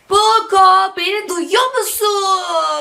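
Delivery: hailing someone who may not hear; calling out. Real, not acted. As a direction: call out slowly, stretching the words. Calling out to the talking toy.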